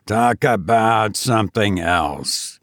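slow, measured refusal; slowly. Acted. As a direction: drag the words out to close the subject. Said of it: "said Benson slowly".

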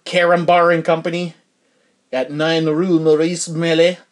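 badly faked French accent; terrible French accent. Podcaster reading the box here, terrible French accent. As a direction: put on a hammy, amateur French accent. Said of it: "That's a terrible French accent".

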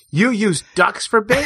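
high, shocked question; can't believe what he's hearing; retold disbelief, voice jumping up; incredulous. Shocked question to bait shop man.

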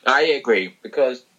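chewing an apple; talking through a bite; mouth full. Real, not acted. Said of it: "sorry, I'm eating an apple".

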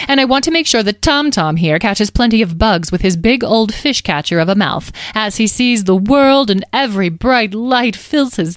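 lightly voiced gushing enthusiasm; theatrical delight, drawing out the last question; breezy fairy leader. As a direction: coo about the kitten with relish. Carnelian gushes over kitten.

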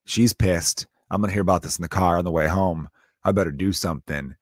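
low-pitched mock resignation; imitated worried husband. Husband seeing his wife is pissed, low mock dismay. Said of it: "he has to be like".

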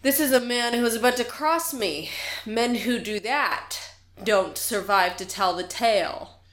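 mildly projected intimidation; public threat. Acted. Pirate warning the whole bar about crossing them, mildly projected threat. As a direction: warn the whole room, measured and menacing. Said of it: "talk loud enough so that the whole bar can hear".

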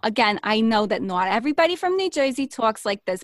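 exaggerated New Jersey friend; broad New Jersey accent, played up on purpose. Shown as a demonstration. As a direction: talk like a cartoony Jersey local. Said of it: "here's how she talks".

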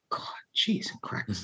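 breathless hushed aside; awed whisper. Real, not acted. Remembering a singer on tour, a real awed whisper. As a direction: let it slip out under your breath.

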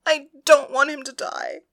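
high, loud, tearful; crying plea. A narrator's reading. Penelope pleads for her lover's life, high and crying. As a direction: beg through the tears. Weeping priestess pleads with goddess.

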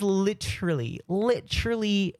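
a hint of Australian in the vowels; Aussie-sounding accent. Real, not acted. Host remarking on how the day flies, slight Aussie accent. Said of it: "when you put on the Aussie accent".

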